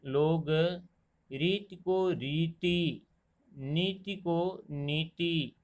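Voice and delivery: रीति and नीति said very slowly, contrasting short and long ई; teacher showing vowel-length mistakes slowly; slow vowel length demo. Shown as a demonstration. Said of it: "अंतर न जानने के कारण".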